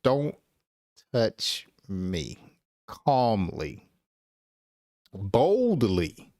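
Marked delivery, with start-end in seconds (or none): 0.0-2.4 calm. Retold or imitated. Teacher voicing a woman calmly warning someone off, calm. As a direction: say it calm and steady, no heat. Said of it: "She calmly said".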